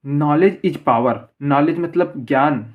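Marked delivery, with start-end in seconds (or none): 0.1-1.2 each word drawn out very slowly for the class; slow dictation. Shown as a demonstration. Teacher reads the example sentence to students, very slowly. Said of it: "अब दूसरा देखिए".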